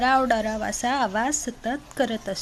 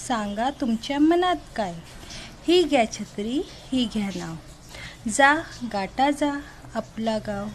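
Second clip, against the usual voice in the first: poem recitation. Acted. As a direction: recite it in a measured, rhythmic way for the class.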